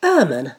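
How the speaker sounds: آمن said with one hamza stretched into a long a; آمن with a lengthened opening vowel; long hamza madd. Shown as a demonstration. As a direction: draw out the alif in آمن. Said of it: "تصبح آمن".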